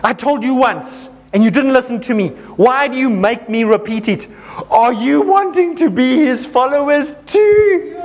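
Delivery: bold rebuke, slowing on the last question; calling them out. Acted. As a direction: call them out boldly. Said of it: "He is calling them out so powerfully".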